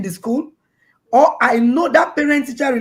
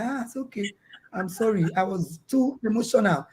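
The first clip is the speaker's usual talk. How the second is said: softly voiced, mildly contrite retelling; humbled apology; 7 dB quieter than usual. Mother apologising to her children after being corrected, humbled. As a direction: quietly back down and apologise. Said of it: "and I humbled myself".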